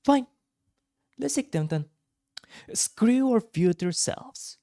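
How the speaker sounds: hushed, slow line read; first take. Shown as a demonstration. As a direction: whisper it out slowly. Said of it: "let me do that line again".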